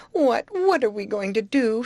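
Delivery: high, distressed wail without tears; storybook despair, lightly acted; mock sob. A narrator's reading. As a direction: plead helplessly, stumbling on the first word. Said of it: "sobbed Grace".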